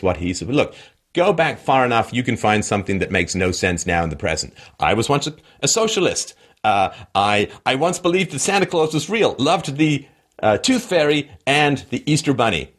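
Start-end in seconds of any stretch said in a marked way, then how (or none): 4.8-12.7 mock confession. Mocking past confessions.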